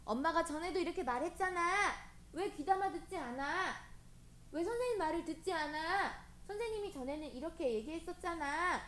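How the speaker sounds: exasperated grown-up reproach, lightly played; mock parental scolding. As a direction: chide a child who won't listen. Acting out a scolding parent and teacher.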